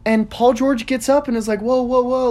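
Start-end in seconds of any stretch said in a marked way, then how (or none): 1.6-2.3 high startled whoa, hammed up; mock freak-out. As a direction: imitate a panicked protest. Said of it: "freaks out".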